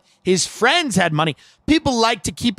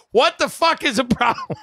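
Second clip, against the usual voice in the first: higher-pitched imitation of an irate salesman; mock outburst; 3 semitones higher than usual. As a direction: imitate his exasperated outburst without more volume. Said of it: "that's the way he used to talk".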